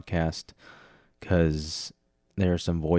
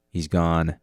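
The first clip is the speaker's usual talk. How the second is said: ordinary talk, nothing marked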